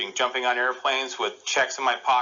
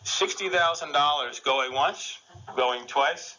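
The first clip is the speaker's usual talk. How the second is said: slow, drawn-out auction call; auctioneer; 3 semitones higher, slower than usual. Pretend. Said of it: "I'm gonna be the auctioneer".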